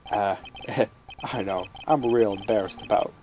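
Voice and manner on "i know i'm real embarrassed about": put-on lower, slipping into the old judge; accidentally doing the judge voice. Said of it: "why am I talking in the judge's voice".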